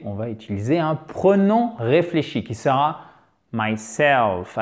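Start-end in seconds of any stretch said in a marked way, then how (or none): 3.5-4.6 myself, leaning on the final SELF; stress on second syllable. Shown as a demonstration. Teacher introducing the reflexive pronoun, myself stressed on SELF. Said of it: "avec l'accent tonique sur la seconde syllabe".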